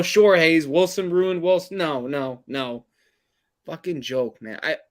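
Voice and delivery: ordinary delivery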